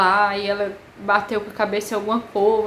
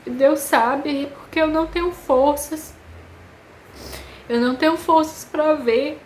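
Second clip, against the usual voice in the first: choro relembrado; 4 semitones higher than usual. Retold or imitated. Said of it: "eu comecei a chorar".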